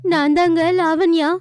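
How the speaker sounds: mild wailing lament. Acted. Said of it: "Lavanya அழுது ஒப்பாரி வச்சுக்கிட்டு".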